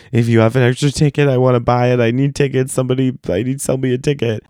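retold frantic appeal; desperate pleading. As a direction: plead with anyone who'll listen. Retold begging for a ticket.

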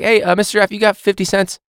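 put-on high, pushy kid voice asking for change; mock student begging. Teacher imitating a student asking for cash, high and pushy. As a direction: play the wheedling student.

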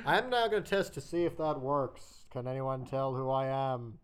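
muffled through a cup. Pretend. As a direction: speak into a cup. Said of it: "talking into a cup".

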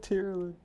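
Tyrolin com r raspado no fundo da garganta, agudo; imitando r francês gutural. Retold or imitated. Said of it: "Like in the back of your throat".

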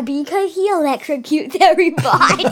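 fast giggly explanation; laughing. Real, not acted. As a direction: giggle through it. Laughing at R2 zapping people.

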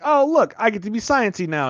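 high, mock giddy voice playing the eager scientist; mocking excited scientist. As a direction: tease her as a giddy know-it-all, pitched high. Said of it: "she's all like".

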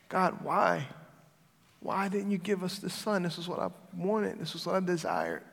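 a subdued, let-down prayer; pleading lament. Retold or imitated. Disappointed dad asking God why, quietly pleading.

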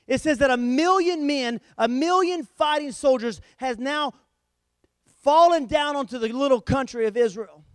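forceful sermon proclamation; emphatic preaching. Real, not acted. Preacher telling the church of a million-man army, emphatic preaching. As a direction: drive each phrase home from the pulpit. Preacher stresses the army's size.

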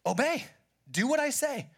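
a firm divine order; God speaking. Retold or imitated. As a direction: proclaim it as God's command. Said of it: "And God says".

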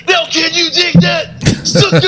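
sung Booker T catchphrase; Booker T impression. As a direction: belt it like Booker T. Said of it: "speaking of Booker T".

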